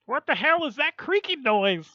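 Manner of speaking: high-pitched loud exclamation; loud, high put-on voice; yelling character voice. Voices chat message as a character.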